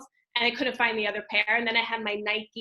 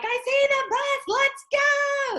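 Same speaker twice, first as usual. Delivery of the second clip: retold scream; 5 dB louder than usual. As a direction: call out to hurry the kids to the bus. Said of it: "I'm screaming, like".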